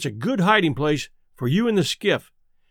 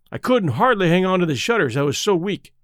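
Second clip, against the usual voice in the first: usual speaking voice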